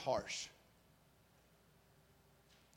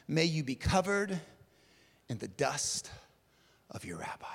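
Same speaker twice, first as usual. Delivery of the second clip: hushed blessing; 6 semitones lower than usual. Acted. First recital of the blessing.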